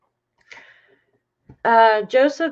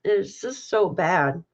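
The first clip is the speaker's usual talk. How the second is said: crying. Real, not acted. Streamer apologising to viewers while crying, tearful. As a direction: speak through real tears. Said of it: "Sorry for crying".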